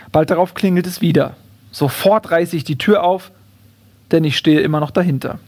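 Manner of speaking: measured, clearly phrased book reading; reading a comic story aloud; story narration. A narrator's reading. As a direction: read the chapter aloud with deliberate pauses. Reads first chapter aloud.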